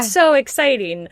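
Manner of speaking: imitating an excited boutique attendant; drawn-out, mildly gushing. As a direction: gush slowly like a wowed shop attendant. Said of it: "was very excited that we were there".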